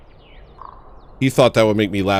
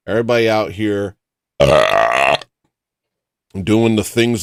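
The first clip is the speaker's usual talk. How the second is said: indignant retort; 4 dB louder than usual. Retold or imitated. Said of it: "I was like".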